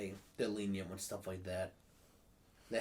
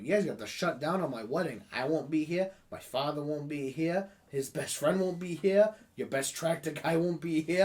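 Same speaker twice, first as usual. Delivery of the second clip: mock announcement to boss; 5 semitones higher, 7 dB louder than usual. Telling boss he'll be shorthanded.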